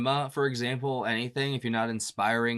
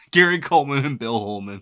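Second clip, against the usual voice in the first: louder, tickled by the rhyming names; amused repeat; 2 semitones higher, 8 dB louder than usual. Real, not acted. Reader apologizing for being five, amused and louder.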